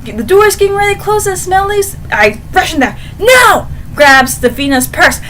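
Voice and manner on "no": high, loud shout of No. Pretend. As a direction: yell it bursting through the door. Rushing in to stop the nurse.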